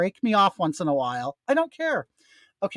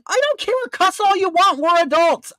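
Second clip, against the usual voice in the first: high heated rant; 10 semitones higher, 3 dB louder than usual. Real, not acted.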